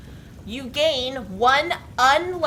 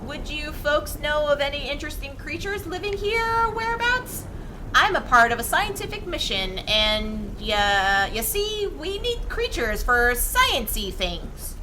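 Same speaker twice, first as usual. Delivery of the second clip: slightly higher, lightly voiced explorer; character voice; 5 semitones higher than usual. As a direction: play the eager scientist pirate. Player voices own pirate character.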